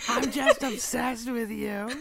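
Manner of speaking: drawn-out, amused lovestruck mimicry; Mickey Mouse. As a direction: echo it slowly in a cartoon mouse voice. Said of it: "I love that delivery".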